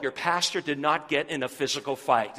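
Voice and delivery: usual speaking voice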